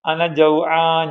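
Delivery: slow, stretched pretend cry; mock wailing. Child crying to mother about hunger, mock wailing. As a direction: draw the last word out like a hungry child's wail. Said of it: "എന്ത് പറഞ്ഞാ നിലവിളിക്കുക".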